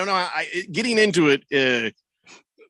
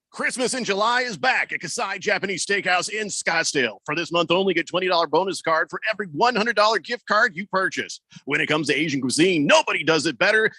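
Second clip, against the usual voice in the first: upbeat radio commercial read. Acted. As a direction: sell it like a radio spot. Reading a radio ad.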